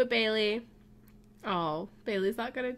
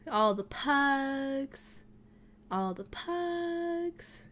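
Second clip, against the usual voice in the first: very slow, stretched-out call; drawn-out calling; 3 semitones higher, 3 dB quieter, much slower than usual. Pretend. Player calls all the pugs over, drawn-out calling. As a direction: summon pets with long held words.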